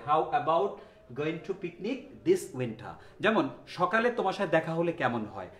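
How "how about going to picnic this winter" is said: very slow, clear teacher phrasing; slow model sentence. Shown as a demonstration. Teacher reading the correct version slowly. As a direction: stretch each word for learners. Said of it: "খুব standard ইংলিশটা হচ্ছে".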